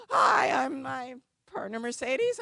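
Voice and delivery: high-pitched, loud, flustered hello; nervous eager greeting. Retold or imitated. Lawyer greeting an angry room, high and loud. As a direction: squeak out a frantic hi to a hostile crowd.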